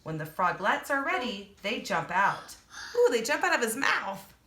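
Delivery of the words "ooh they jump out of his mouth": higher, louder delighted exclaim; excited ooh. Real, not acted. Reading to children, excited ooh at the frog.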